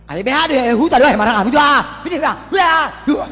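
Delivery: mock crowd shouting. Preacher mimics mourners drowning out his sermon, shouting. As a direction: shout them on like a noisy funeral crowd.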